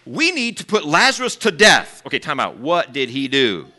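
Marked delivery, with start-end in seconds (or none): 0.0-2.0 scheming plotters. Retold or imitated. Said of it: "they plotted and they said".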